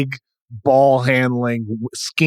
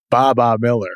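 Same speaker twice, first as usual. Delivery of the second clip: laughing shout. Real, not acted. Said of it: "laughs shouting the name".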